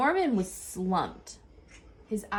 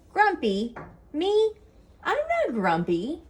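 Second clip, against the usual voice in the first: indignant; 8 semitones higher than usual. A narrator's reading. Jim denies being grumpy to Lemur.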